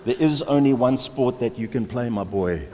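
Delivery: a hint of a loud, insistent father; emphatic rugby dad. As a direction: lay down the law like a rugby-mad dad. Voicing an emphatic rugby-mad father.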